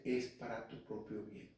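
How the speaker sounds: gentle, hushed aside; voice of God. Acted. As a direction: say it softly, as God reassuring. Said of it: "como que Dios te dice".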